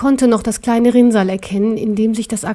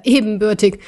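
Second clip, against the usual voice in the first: mocking echo. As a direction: throw ebenbürtig back mockingly. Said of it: "Ha, rief der Kaiser".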